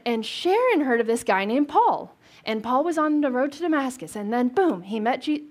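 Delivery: excited gossip, key names stretched and lifted; gossipy retelling. Acted. A friend of a friend passing on news of Paul, gossipy. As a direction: spill it like juicy secondhand news. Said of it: "We might call it gossip today".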